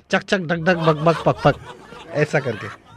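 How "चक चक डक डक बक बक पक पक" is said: rattled off fast in a single breath; one breath, no pauses; all in one breath. Shown as a demonstration. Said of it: "एक सांस में बोल देना last में".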